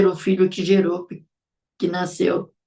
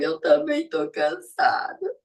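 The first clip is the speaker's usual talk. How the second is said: mock crying; 7 semitones higher than usual. Mother pretending to cry to her tired little daughter, mock crying. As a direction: whine through pretend sobs. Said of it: "fingia que estava chorando e falava".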